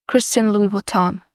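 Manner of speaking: imitated American accent on the brand name; demonstrated American pronunciation. Shown as a demonstration. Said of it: "it was in American".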